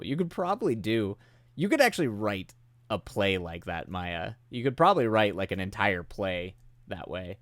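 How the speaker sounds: normal talking voice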